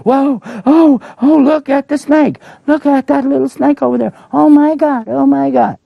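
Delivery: very high, loud, hammed-up panicked crowd; scared onlookers. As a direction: gasp and point at the snake in mock terror. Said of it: "so they were scared".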